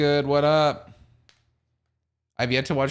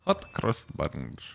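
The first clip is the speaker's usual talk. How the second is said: slow drawn-out call; 6 semitones lower, 6 dB quieter, much slower than usual. Pretend.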